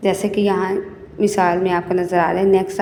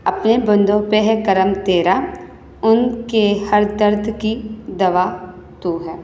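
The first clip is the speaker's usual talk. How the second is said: model poem recitation. Shown as a demonstration. Teacher showing pupils how to read verse with correct pronunciation, measured recitation. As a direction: recite line by line, pausing between phrases. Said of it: "آپ نے بھی اس کو اسی طرح سے پڑھنا ہے".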